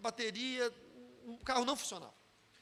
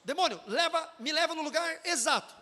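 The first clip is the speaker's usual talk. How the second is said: higher-pitched, forceful mock command; pastor ordering demon; 5 semitones higher, 3 dB louder than usual. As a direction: imitate a preacher commanding a demon. Pastor imitado dando ordem ao demônio. (ordem imitada, voz mais aguda)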